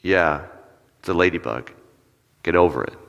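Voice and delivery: low, unimpressed brush-off; dismissive response. Acted. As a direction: shoot the excitement down. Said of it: "And their response is".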